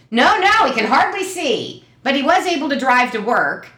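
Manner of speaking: high insistent mock mother; imitating mom. Daughter voicing mom about dad's eyes. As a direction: protest quickly as mom.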